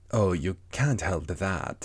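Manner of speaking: slow, drawn-out cat voice; Cheshire Cat. Acted. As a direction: stretch the words out like a leisurely storybook cat. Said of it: "said the cat".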